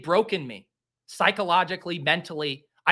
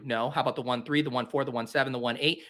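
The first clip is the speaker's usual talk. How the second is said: ordinary talk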